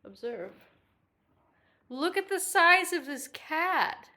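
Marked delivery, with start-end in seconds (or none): 1.9-4.1 slow, pitched-up coo. Real, not acted. Pet sitter showing the cat on camera, cooing.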